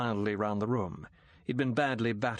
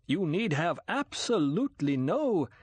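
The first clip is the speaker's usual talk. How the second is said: the Count presses in earnest, raised and louder; forceful sincerity; 7 semitones higher, 4 dB louder than usual. A narrator's reading. The Count forcefully reassures Bond, raised and louder. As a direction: insist with force, cut off. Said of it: "began with force, sincerity".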